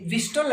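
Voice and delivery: 'whistle' with a t; American-style whistle, t sounded. Shown as a demonstration. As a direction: pronounce the t in whistle. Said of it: "American में". ('विस्टल', 'ट' के साथ)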